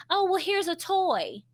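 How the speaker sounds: high, breezy offer of a toy; dismissive distraction. Retold or imitated. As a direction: brush the crying off with a cheery toy offer. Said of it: "you're like".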